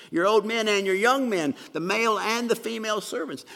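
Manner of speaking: loud, rising pulpit emphasis; building to a loud climax; forceful preaching. Real, not acted. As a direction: drive it home to the congregation.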